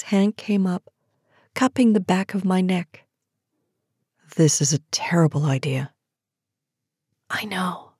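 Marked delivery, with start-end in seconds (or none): 4.4-5.9 low, near-whispered man's protest; hushed male voice. A narrator's reading. Man cupping her neck, hushed reluctant protest. 7.3-7.9 soft, intimate whisper. A narrator's reading. Woman with lips brushing his jaw, whispered. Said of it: "I whispered".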